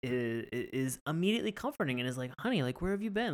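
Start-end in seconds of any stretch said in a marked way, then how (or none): 2.4-3.3 lightly voiced husband. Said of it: "I'm not gonna do the French accent".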